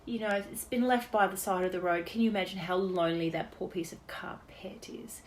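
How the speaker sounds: slow, hushed mock sympathy for a carpet; mock-tragic dad, slow and trailing into a whisper; Dad's mock pity. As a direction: play the silly dad pitying a lost carpet, drawn out. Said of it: "and he'd say".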